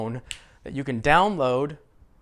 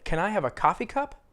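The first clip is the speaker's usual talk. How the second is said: "coffee" stressed, "cup" kept weaker, question rising at the end; 4 semitones higher than usual. Shown as a demonstration. Teacher modelling a request for learners, stress on COFFEE. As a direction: hit "coffee" harder than "cup" and lift the question. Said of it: "Americans usually stress coffee".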